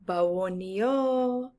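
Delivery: Bawonio said slowly, each syllable clear; slow careful Bawonio; Yoruba greeting. Shown as a demonstration. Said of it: "We say".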